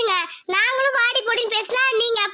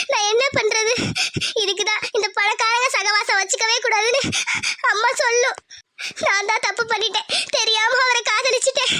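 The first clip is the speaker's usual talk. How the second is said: crying lament. Acted. Girl weeps alone after insult.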